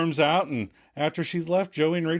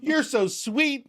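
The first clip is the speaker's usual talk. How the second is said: much higher, slow, sugary sweet; oblivious sweet Katie; 13 semitones higher, slower than usual. Retold or imitated. Host voicing Katie answering Rachel, high and syrupy. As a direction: coo it like she misses the hint. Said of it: "Katie, who can't take a hint".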